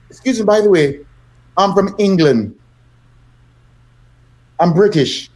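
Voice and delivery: politely defuse her, letting each phrase settle; retold calm, well-mannered British voice; calming British politeness. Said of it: "to calm her down".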